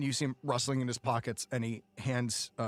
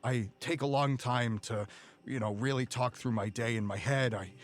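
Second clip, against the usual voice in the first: low, subdued murmur to a patient; weary gangster comforting a kid; reassuring, worried henchman; 5 semitones lower, faster than usual. Acted.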